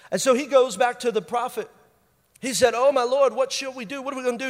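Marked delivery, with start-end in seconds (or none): 2.8-4.5 freaking out. Acted. Servant asking the prophet what to do, mildly freaking out. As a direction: lightly play a rattled servant. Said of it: "He's freaking out".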